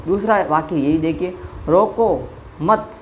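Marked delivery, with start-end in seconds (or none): 1.7-2.9 "रोको मत" held together slowly, ending raised before the break; pause after मत. Shown as a demonstration. Teacher showing where the comma moves, pausing after "मत". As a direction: stretch "रोको मत" as one unit and hang on "मत". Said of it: "यहाँ है मत के बाद में".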